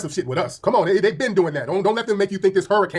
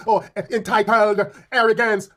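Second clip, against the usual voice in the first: mocking sneer; 4 semitones higher, slower than usual. Mocking the accusers.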